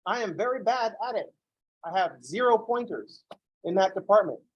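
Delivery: mock helpless. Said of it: "I'm like".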